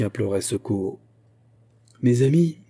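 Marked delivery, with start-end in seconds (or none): 2.0-2.6 solemn, resonant address, raised; grave et sonore. A narrator's reading. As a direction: open a speech to a crowd. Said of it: "d'une voix grave et sonore". (d'une voix grave et sonore)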